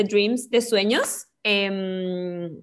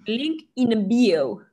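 slow drawl; 4 dB louder, much slower than usual. Pretend. Drawn-out catchphrase.

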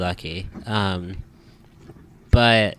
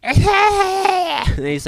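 high, slow helpless laughter; laughing hard; 4 dB louder, much slower than usual. Real, not acted. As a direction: crack up while talking. Laughing about the beaver videos.

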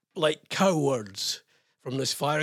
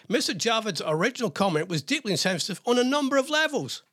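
reading the quote in a raised, lifted pitch; voice went up; 5 semitones higher than usual. Real, not acted. Host reading a statement on air, voice rising higher. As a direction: let the voice ride up unexpectedly as you read it. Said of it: "I don't know why my voice went up like that".

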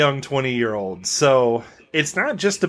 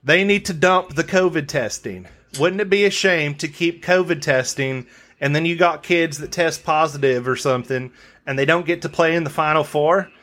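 put-on southern accent. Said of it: "try it in my southern accent".

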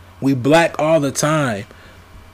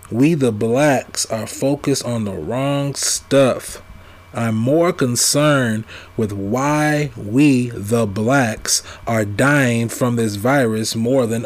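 original wording; slower than usual. Shown as a demonstration. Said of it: "That question could also been said".

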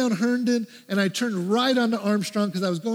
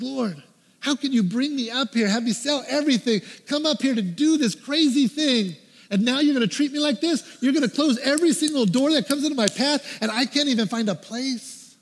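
higher, insistent questions piling up; aggrieved retold plea to God; frustrated complaint; 3 semitones higher than usual. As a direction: protest to the Lord in disbelief.

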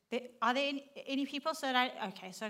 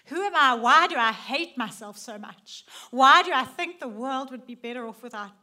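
despairing outcry; 7 dB louder than usual. Pretend. Voicing despairing inner questions.

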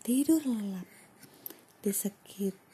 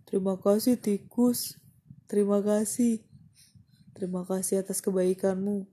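grateful lion; 5 dB louder than usual. Acted. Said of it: "kata singa".

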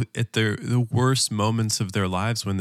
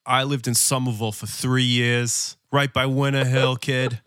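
put-on Boston accent; 3 semitones higher than usual. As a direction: slip into a mild Boston accent with a tough-guy "kid". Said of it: "Am I allowed to do the accent?".

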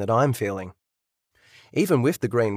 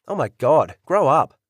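louder, rising scolding; exasperated outburst; 2 semitones higher, 5 dB louder than usual. Acted. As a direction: tell him off, fed up. Couple quarrel in hospital.

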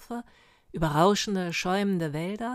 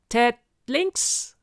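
loud military order, higher pitched; mighty command; 5 semitones higher, 8 dB louder than usual. Acted. Sergeant steering his flying squadron, mighty shouted command. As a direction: call the turn out powerfully. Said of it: "kommandierte ... mit mächtiger Stimme".

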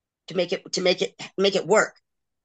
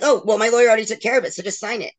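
dismissive ex; 3 semitones higher, 4 dB louder, faster than usual. Retold or imitated. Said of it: "my ex is like".

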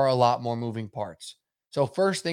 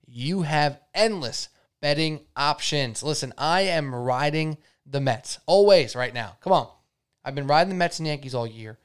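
ad read; 2 semitones higher than usual. Acted. Sponsor read for DraftKings.

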